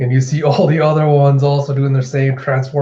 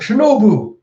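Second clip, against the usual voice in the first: high, loud call of alarm; retold panicked shout; mock distressed cry; 9 semitones higher, 6 dB louder than usual. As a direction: cry out for a hurt friend. Momo cries out as she falls.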